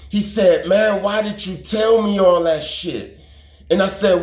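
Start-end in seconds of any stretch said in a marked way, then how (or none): 0.7-3.1 mildly heated, higher-pitched reproach; retold anger. Country confronts him over what he told, imitated mild anger. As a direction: imitate a friend's aggrieved complaint. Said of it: "he was mad at me".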